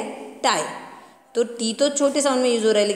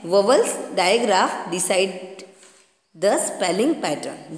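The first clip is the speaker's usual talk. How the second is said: slow reading aloud; much slower than usual. Shown as a demonstration. Teacher to children reading the textbook definition, slowly. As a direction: read the definition word by word, very slowly. Reads English heading slowly.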